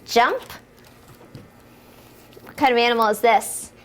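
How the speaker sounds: ordinary delivery, nothing marked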